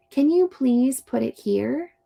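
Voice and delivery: friendly rising "Can you please put it here?"; gentle request; nice polite ask. Shown as a demonstration. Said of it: "The nice friend says".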